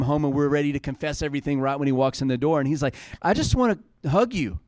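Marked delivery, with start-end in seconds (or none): 3.2-4.6 higher-pitched, affectionate appeal; affectionate father. Retold or imitated. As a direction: reach out like a doting dad. Father voiced, offering a hug.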